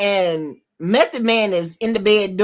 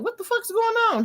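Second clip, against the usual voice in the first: retold shocked question; 12 semitones higher, faster than usual. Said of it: "Kane was like".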